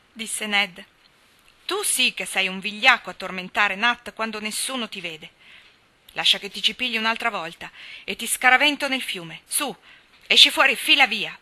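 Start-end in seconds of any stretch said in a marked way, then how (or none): 1.6-11.4 loud furious scolding, exploding on the last words; enraged yelling. A narrator's reading. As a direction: drive the bully off with rage. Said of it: "urlò Dan infuriato". (urlo infuriato, esplode alla fine)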